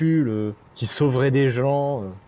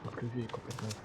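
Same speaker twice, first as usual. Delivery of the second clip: hushed aside, barely voiced; library whisper; 3 semitones lower, 19 dB quieter, faster than usual. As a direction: whisper it behind his back. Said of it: "je chuchote dans votre bibliothèque".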